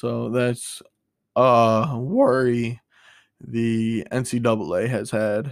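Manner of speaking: voice breaking mid-phrase, very slow and halting. Discussing college sports conferences, the speaker's voice is cracking. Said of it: "I know I just voice cracked".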